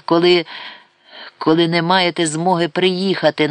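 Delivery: reproachful stress on змоги. A narrator's reading. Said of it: "вона зробила докірливий наголос". (докірливий наголос на слові змоги)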